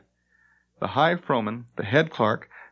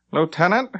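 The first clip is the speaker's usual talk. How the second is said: slight sneer; 6 semitones higher, 4 dB louder than usual. Acted. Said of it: "always spoken with a slight sneer".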